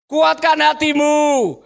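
slow, drawn-out encouragement; rousing call. Acted. Crowd summoning the blind man, slow rousing call. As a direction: call out slowly to rouse him. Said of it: "moodnya sudah berubah".

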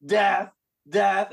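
retold battle yell, held back; mock yell. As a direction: imitate a war cry without shouting.

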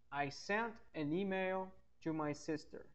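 slow, careful English model line; slow model sentence. Shown as a demonstration. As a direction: read it slowly for the students. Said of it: "Agora eu poderia escrever".

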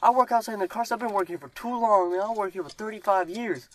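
imitating Ron the cart guy. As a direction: do the chatty old cart worker voice. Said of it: "He's like".

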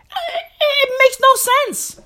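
high, slow, drawn-out whine of disbelief; squealed, stretched-out complaint; high-pitched exasperation. Acted. Exasperated rant at the name.

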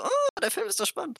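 high, airy mock delight; mock enthusiasm. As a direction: chirp it with fake excitement. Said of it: "das denke ich mir so".

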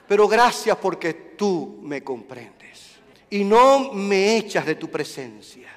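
intimate prayer. Retold or imitated. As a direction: confide in God tenderly. Prayer voiced to God.

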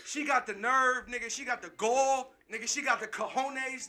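slow, weighted words; slow emphatic. Real, not acted. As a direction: drag out each phrase for emphasis. Building emphatic list.

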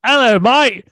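high, loud, hammed-up Yorkshire fan; attempted Yorkshire accent. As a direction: hail someone in a mock Yorkshire accent. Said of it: "You gotta do Yorkshire".

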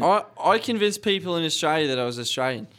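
convincing put-on Australian accent. Telling how the team was fooled, Australian accent. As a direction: chat casually as an Australian. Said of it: "I would believe you're Australian".

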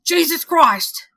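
slow, loud, bitter hard-boiled detective. Acted. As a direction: growl it out like a weary cop. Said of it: "There's my detective voice for you guys".

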